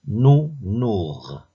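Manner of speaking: "Nounours" split into nou and nours; syllable by syllable. Shown as a demonstration. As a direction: say "Nounours" slowly, each syllable held apart. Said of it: "repère le son qui se répète".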